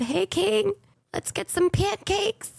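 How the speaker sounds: high-pitched chirpy call to a friend; cheerful invitation. Retold or imitated. Streamer invites friend out for breakfast, cheerful invitation. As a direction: lift it high and playful, inviting.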